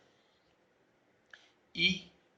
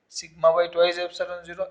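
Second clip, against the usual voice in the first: slow dictation; much slower than usual. Shown as a demonstration. Teacher dictating the formula to students, slowly. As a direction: spell out the formula word by word, slowly.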